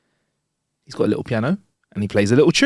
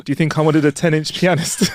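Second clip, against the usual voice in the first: laughing; 2 semitones higher than usual. Acted. Punchline with a laugh.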